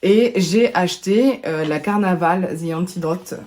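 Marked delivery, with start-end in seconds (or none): 2.6-3.3 English name with a French accent; English words pronounced the French way. Real, not acted. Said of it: "avec mon super bel accent".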